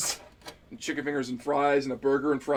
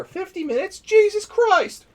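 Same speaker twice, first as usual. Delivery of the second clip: much higher and louder, drawn-out slow exclamation; mock shock; 9 dB louder, slower than usual. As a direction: stretch out the disbelief, hammed up. Acting out his shocked reaction.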